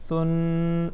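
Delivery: سن with a soft, lisped th for s; thin, soft tha. Shown as a demonstration. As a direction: chant سن lightly, no whistle. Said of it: "باریک پڑھیں گے، ہلکا پڑھیں گے".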